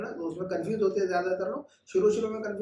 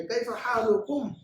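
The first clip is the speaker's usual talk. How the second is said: higher, slow model question; 5 semitones higher, slower than usual. Shown as a demonstration. Teacher acts out Hamid asking the boys, higher and slow. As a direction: ask कैफ़ हालुकुम raised and slowly. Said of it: "बच्चों से पूछा फिर कि".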